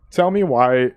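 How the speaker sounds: high, excited burst; excited singing-along voice; excited "Tell me why". Real, not acted. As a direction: blurt it out, too hyped. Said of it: "I'm getting excited again".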